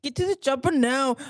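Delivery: lightly voiced action-star line; half-hearted echo of action hero; Arnold Schwarzenegger. Co-host echoing the host's line, mild action-star impression. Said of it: "Can you do an Arnold Schwarzenegger impersonation?".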